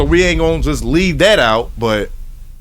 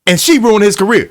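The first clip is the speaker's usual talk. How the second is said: getting pissed off; 4 semitones higher, 4 dB louder than usual. Real, not acted. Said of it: "I'm getting so pissed off".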